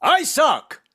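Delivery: high, mock vampire cry; Ron DeSantis as vampire. Shown as a demonstration. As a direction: announce it like a hammed-up bloodsucker. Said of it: "This is Ron DeSantis as a vampire".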